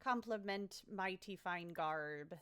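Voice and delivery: put-on pirate accent. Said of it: "We should talk like a pirate".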